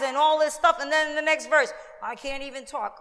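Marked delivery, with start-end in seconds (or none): 2.0-3.0 laughing. Retold or imitated. Quoting Moses laughingly.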